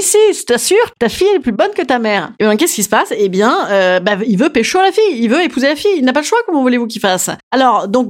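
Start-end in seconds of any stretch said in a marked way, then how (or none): 0.0-2.3 sly minister. Retold or imitated. Minister voiced advising the king.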